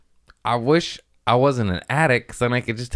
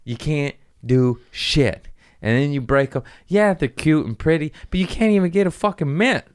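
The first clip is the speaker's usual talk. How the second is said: building from mild gripe to a loud, much higher rant; mock rant; 8 semitones higher, 4 dB louder than usual. Ranting at girls with long nails, mock angry and rising. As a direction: scold the girls louder and higher each line. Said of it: "It's like".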